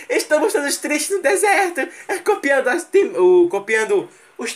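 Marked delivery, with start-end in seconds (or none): 0.1-1.9 mais agudo, tom dramático de novela; imitação exagerada. Pretend. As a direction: zombando dos personagens tristes. Imitando os atores da série. (imitando os atores tristes no deserto)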